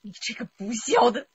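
high, loud insult; furious curse. Acted. Wife cursing her husband in fury. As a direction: spit the insult out in rage.

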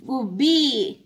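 "gubbi" with a round u and a light double b; Kannada word. Shown as a demonstration. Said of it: "In Kannada we say".

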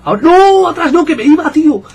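high, loud protest with a laugh; outraged shout. Real, not acted. Gamer protesting an offside call, shouting. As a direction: yell no at the call. Referee whistles back his run.

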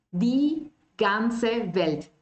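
Die ganze Welt drawn out very slowly; slow model. Shown as a demonstration. Teacher modelling the phrase slowly.

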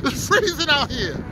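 shaky voice from the cold; shivering. Real, not acted. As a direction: talk while shivering in the wind. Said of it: "I'm freezing right now".

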